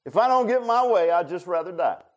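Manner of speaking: put-on a sulking child's tantrum; whiny little kid. Preacher mimics Jonah sulking to God, childish tantrum. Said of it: "sound just like a little kid".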